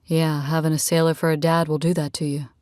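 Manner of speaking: lightly voiced easygoing man; a hint of a relaxed male character; easygoing Rad. Man telling a new friend about his family, lightly voiced, easygoing.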